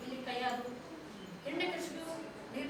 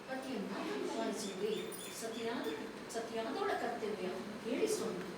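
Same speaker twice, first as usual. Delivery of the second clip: softer, lower queen asking obediently; queen's voice; 8 semitones lower, 12 dB quieter than usual. Acted. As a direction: ask your lord humbly, softly. Queen pledges obedience to king. (ರಾಣಿ ರಾಜನನ್ನು ವಿನಯದಿಂದ ಕೇಳುವುದು, ಮೃದು ಧ್ವನಿ)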